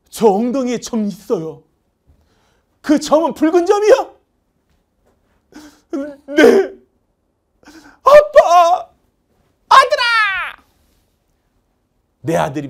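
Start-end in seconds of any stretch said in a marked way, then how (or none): 0.1-1.6 son answering. Acted. 2.8-6.7 very high, loud, eager asking; excited questioning. Acted. Father checking the birthmark, very high and loud. Reunion dialogue acted out. 8.0-10.6 high, loud hammed-up sobbing shout; tearful reunion cry. Father and son falling into each other's arms, crying out very high.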